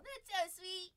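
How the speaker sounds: lightly lifted, affectionate aww; touched cooing. Real, not acted. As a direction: melt a little over the dog. Coos over her dog.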